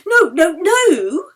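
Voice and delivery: loud, slow, pleading no; insisting. A narrator's reading. Yeli denies it to the table, loud and pleading. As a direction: cry out the denial, drawn out. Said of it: "Yeli insisted".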